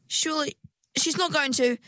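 rising disbelief, high; shocked. A narrator's reading. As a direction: gasp it in disbelief. Shocked inner question.

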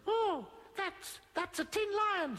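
high, hesitant goblin voice; little tree goblin. A narrator's reading. Tree goblin explaining a strange noise, little goblin voice. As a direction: stammer it in a tiny high voice.

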